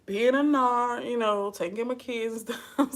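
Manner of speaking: high-pitched, falsely casual sarcasm; sarcastically offhand retort; sarcastic. Retold or imitated. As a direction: play innocent, stretching the jab. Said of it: "I'm being sarcastic".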